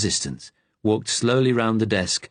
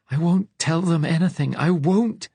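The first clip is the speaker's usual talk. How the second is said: fierce hiss; 9 semitones higher than usual. A narrator's reading. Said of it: "in a quiet, fierce tone ... almost hissing".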